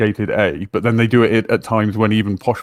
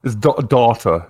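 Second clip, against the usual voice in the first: slow "data" in an imitated American accent; 3 dB louder, slower than usual. Trying out how Americans say daughter, imitated American accent. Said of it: "In American accent".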